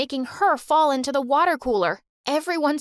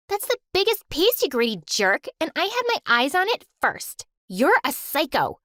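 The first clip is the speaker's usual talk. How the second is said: angry yelling; 4 semitones higher than usual. Acted. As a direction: yell at her sister furiously. Sister yelling over chicken.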